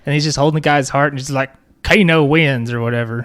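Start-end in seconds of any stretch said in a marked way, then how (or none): 1.8-2.7 put-on a shaky try at an Australian accent, Kano's victory line; attempted Australian accent. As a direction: growl it like the Australian fighter Kano, badly. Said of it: "I was trying to do Australian".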